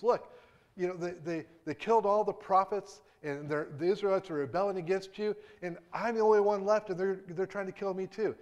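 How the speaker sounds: high, loud despairing rant; venting despair. Retold or imitated. Elijah venting his despair loudly at God. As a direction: pour out bitter self-pity at God. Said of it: "he vents out these words".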